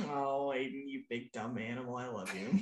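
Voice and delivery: low, soft, tender teasing; fond sigh of affection. Acted. Viewer melting at a sweet boyfriend, softly fond. Reacting fondly to Aiden's sweetness.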